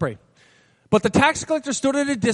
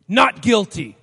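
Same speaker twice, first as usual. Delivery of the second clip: defiant plea; 7 dB louder, slower than usual. Retold or imitated. Defiant defendant in court.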